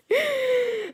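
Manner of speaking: helpless high laugh; real laughing fit. Real, not acted. Cracks up over the scene.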